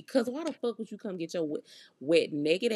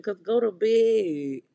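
stern scolding; 7 dB louder, much slower than usual. Retold or imitated. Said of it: "Sir, I'm not finna give you nothing".

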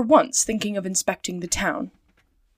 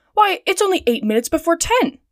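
indignant; 8 semitones higher, 3 dB louder than usual. A narrator's reading. Passepartout protests the time.

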